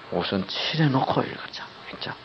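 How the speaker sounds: breathy hushed urging; whisper. Real, not acted. Preacher whispers his advice to the congregation. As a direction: whisper it like a secret.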